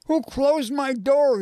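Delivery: high, slow, indignant demand. A narrator's reading. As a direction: demand an answer, drawing out each word. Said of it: "he demanded".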